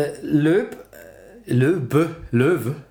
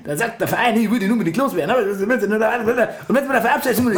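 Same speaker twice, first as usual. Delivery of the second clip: hammed-up Austrian accent, cocky. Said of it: "Mach Mario Götze mit österreichischem Akzent".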